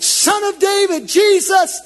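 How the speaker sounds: high, loud shout for mercy; crying out. Acted. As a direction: call out across the crowd. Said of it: "So he cried out".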